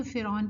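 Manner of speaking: فرعون quick, as fir-awn; Urdu-style reading. Shown as a demonstration. Teacher quoting the Urdu reading, flattened vowel. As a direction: say فرعون without any "au" glide. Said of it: "Urdu میں پڑھتے ہیں".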